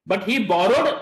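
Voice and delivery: "borrowed" emphasised, left rising; single out "borrowed" from stole or tore; stress on BORROWED. Shown as a demonstration. Teacher correcting the verb, stress on "borrowed". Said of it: "stress is on the word of what".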